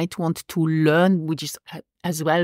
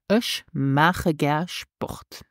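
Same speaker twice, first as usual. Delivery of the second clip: slow model phrase; 2 semitones lower, much slower than usual. Shown as a demonstration. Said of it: "This is".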